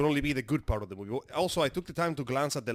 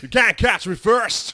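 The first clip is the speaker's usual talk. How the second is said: imitating McConaughey; 8 semitones higher, 10 dB louder, slower than usual. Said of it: "you gotta say it right".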